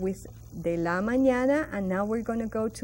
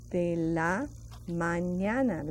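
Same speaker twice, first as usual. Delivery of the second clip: slow model phrase; 3 semitones lower, slower than usual. Shown as a demonstration. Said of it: "Let's pronounce that very slowly".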